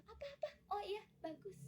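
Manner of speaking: high, soft absent-minded reply; distracted parent. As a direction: mumble approval while glued to your phone. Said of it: "kita sambil main H P gitu".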